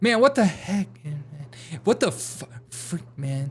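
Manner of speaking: slow mutter under the breath. Imitating a politician who mutters his curses: Eric Swalwell cursing under his breath. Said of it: "he does it under his breath".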